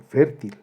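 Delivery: fértil with the first syllable, fér, stressed; stress on penultimate syllable. Shown as a demonstration. Teacher giving an example of llanas, fértil stressed on fér. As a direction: say fértil leaning on FÉR, not til. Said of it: "cuando la sílaba tónica es la penúltima".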